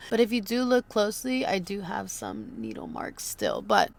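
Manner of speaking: swollen lips; talking through puffy freshly filled lips; fresh lip filler. Real, not acted. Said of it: "my lips are so swollen".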